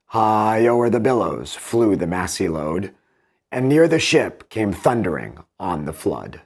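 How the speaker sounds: slow, measured heroic couplets; poem reading. Acted. Teacher reading Pope's Odyssey aloud, slow and rhythmic. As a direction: let each rhyme land at the line end. Reads Pope's second passage.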